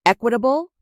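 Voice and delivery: incredulous, voice rising. Acted. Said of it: "My voice rose".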